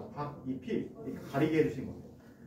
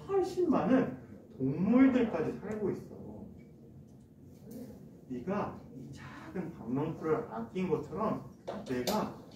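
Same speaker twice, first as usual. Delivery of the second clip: slow, softer fatherly voice; God speaking gently; 4 dB quieter, slower than usual. Acted. God calmly teaching Jonah on the hill, slow and gently soft. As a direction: gently reason with a sulking child. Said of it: "이렇게 말씀하셨어요".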